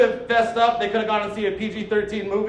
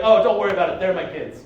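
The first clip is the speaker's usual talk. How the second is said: breezy low-key reassurance without missing a beat; casual, instant cover; 4 semitones lower than usual. Retold or imitated. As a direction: toss it off low, like it's nothing. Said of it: "Without missing a beat".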